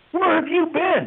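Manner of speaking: high-pitched, exasperated outburst; retold loud yell. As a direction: demand it like a furious boss. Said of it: "he yelled real loud".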